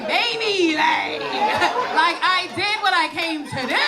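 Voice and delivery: put-on slow, dragged out, rambling teen; milk every like; extra daughter gushing about prom; dramatic teen daughter. Acting out daughter's rambling answer.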